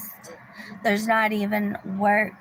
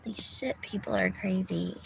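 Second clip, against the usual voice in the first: whisper; 7 dB quieter than usual. Real, not acted. Aside about the strange woman.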